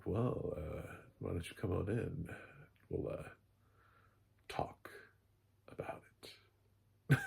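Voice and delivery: soft, halting invitation with long pauses; suave seducer. Retold or imitated. Acting suave Rock Hudson inviting her.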